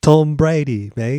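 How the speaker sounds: loud hammed-up Boston accent; mock Boston accent. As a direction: shout it like a cartoon Boston fan. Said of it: "do your Boston accent".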